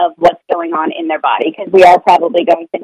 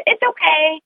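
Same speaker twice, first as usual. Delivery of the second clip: higher, soft soothing "It's okay"; a parent soothing the child after an accident; reassuring; 9 semitones higher, 4 dB quieter than usual. Retold or imitated. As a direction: comfort the child lightly. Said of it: "this was one of my things".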